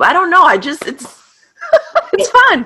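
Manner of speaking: high, laughing and shy. Real, not acted. Laughing embarrassed.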